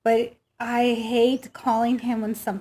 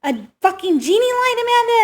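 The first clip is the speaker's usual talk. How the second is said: higher, incredulous fatherly outburst; mock disbelieving dad; 10 semitones higher, 4 dB louder than usual. Daughter imitating her mechanic dad's disbelief at her. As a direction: hit Amanda with mock disbelief. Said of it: "And he's like".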